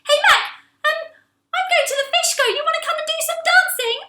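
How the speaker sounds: very high, bright, bubbly; cheery Angel. Acted. Angel calls Mac to the Fishco, very high and bubbly. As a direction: call after her all chirpy.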